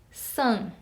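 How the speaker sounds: san with a nasal vowel. Shown as a demonstration. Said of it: "eu não falo sa e nem san, eu falo san, com um som nasal".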